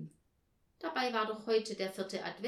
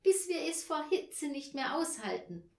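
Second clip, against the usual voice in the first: high, loud eager shouting; excited shout; 7 semitones higher, 5 dB louder than usual. A narrator's reading. Peter tops Anja's idea of sweating, excited shout. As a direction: shout it out with relish. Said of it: "schrie Peter".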